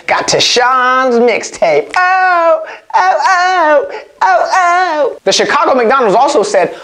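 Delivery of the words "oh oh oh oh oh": high laughing oh's. Real, not acted. Laughing at the story.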